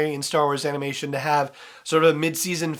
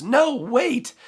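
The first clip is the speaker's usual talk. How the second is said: higher, louder mock yell; retold yell; 11 semitones higher, 6 dB louder than usual. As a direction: call out after someone, acting the yell. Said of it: "and she yells".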